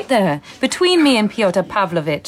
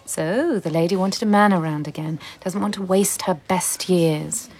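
gossiping people; 4 semitones lower than usual. Acted. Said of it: "People will talk about me".

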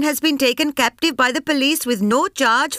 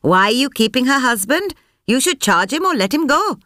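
high, sharp demand at the officer; snapping; 10 semitones higher than usual. A narrator's reading. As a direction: snap it at the officer, high and hard. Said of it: "Sampath snapped".

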